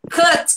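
"Cut" drawn out with an E-like U. Shown as a demonstration. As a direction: stretch "Cut" on its E-like vowel. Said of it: "Todos os U's com som de E".

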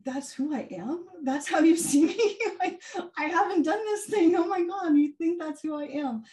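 high, incredulous, laughing retort; stunned disbelief. Retold or imitated. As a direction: replay your shocked delight at her words. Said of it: "And I was like".

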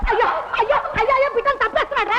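desperate cry out while being beaten; crying for help. Acted. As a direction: scream for the neighbours to come.

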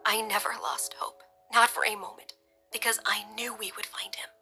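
soft, whispery, steady voice; steady through tears. A narrator's reading. Wife to husband on finding their son, soft and steady. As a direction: half-whisper it, holding back tears. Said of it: "her voice steady despite the tears".

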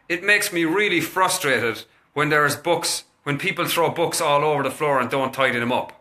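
name the frustration plainly and deliberately; controlled frustration. Retold or imitated. Father telling kids the mess frustrates him, firm. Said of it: "I said it like that, that kind of aggression".

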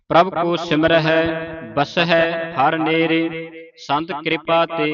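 measured, level-toned Gurbani recitation; sustained monotone chant for learners to follow; scripture recitation. Shown as a demonstration. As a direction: recite evenly, holding the line endings.

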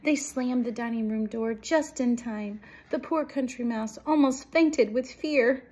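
lively picture-book reading; dramatic story read-aloud. A narrator's reading. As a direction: project the narration to young listeners. Reads a story to children.

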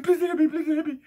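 mock the man crying for mercy; mocking a scared man begging not to be hit; mock pleading. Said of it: "He said".

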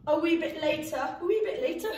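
light accidental Scottish accent; slipping into Scottish. Real, not acted. Teacher telling the class the plan, slipping into Scottish. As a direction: let a hint of Scottish creep in. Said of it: "She went a bit Scottish".

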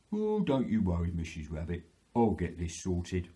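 lightly voiced reassuring bear; a hint of a protective storybook bear; Mister Bear. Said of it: "And Mister Bear said".

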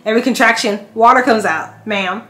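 firm insistence. Retold or imitated. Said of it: "And I'm like".

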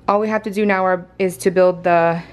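gasping between phrases; winded, catching breath mid-sentence. Real, not acted. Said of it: "hold on, I need to catch my breath".

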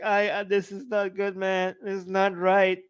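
lightly faked tearful pleading; mock tearful. Arjun pleading against the battle, mock tearful. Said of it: "like, in tears".

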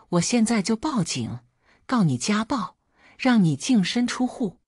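angry threat. Acted. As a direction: threaten to call the police, rising. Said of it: "周周喊".

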